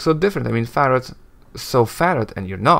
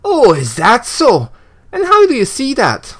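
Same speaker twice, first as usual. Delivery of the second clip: flustered Anna; 12 semitones higher, 6 dB louder than usual. Acted. Anna flushes and challenges.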